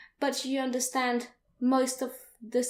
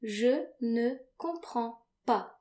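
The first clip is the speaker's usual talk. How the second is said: slow model phrase; slower than usual. Shown as a demonstration.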